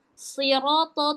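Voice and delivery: siroto with heavy consonants; heavy, slow siroto; thick-sounding siroto. Shown as a demonstration. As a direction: make both syllables of siroto thick and emphatic. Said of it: "tebal-tebal".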